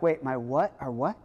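baffled stammering double-takes; mock bewildered "wait, what?"; confused disbelief. Paralyzed man baffled at Jesus's words, stammering confusion. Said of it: "that guy's gotta be like".

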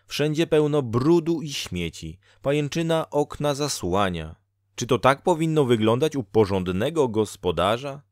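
Dola, scolding fate-woman. Acted. (wyższy, karcący głos Doli)

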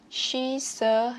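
"she's a" joined as one word; linked sounds. Shown as a demonstration. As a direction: slide the S of "she's" into "a". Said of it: "nối âm luôn". ("she's a" nối âm liền nhau)

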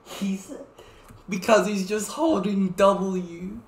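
ordinary talk, nothing marked

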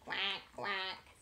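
low quacking duck. Acted. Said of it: "said the duck".

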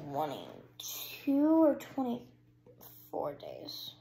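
slow breathy whisper. Real, not acted. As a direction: drop to a whisper. Sudden aside in whisper.

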